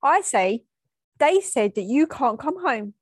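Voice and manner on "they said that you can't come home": a hint of a tattling child; lightly voiced kid reporting on someone; little kid telling. Daughter to her sick mum, like a kid telling. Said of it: "like a little kid telling someone".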